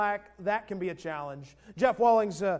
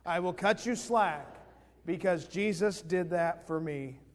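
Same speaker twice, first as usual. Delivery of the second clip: slow group recitation; 2 semitones lower, slower than usual. Shown as a demonstration. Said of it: "Say that one with me".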